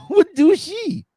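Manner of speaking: high, breathless through laughter; words squeezed out while laughing. Real, not acted. Host laughing hard at the cat video.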